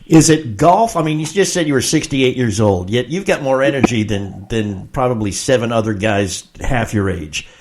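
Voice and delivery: breaking up over the phone; clipped phone line. Real, not acted. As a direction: voice cutting out on a bad line. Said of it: "you're breaking up a little bit".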